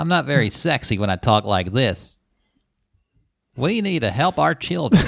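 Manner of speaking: mock earnest politician delivery; Tim Kaine. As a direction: play an unsexy, earnest bachelor politician. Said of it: "when he speaks English".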